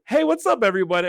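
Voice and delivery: imitating a bright, high, cheery hello; mock-bubbly high-pitched greeting. Mimicking Electric greeting the lobby, high and cheery. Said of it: "He says".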